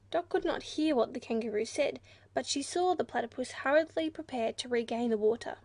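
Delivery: ordinary delivery, nothing marked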